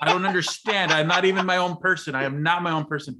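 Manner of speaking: a hint of the sister's indignant huff; mildly voiced outraged sister; mock furious sister. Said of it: "my sister so infuriated".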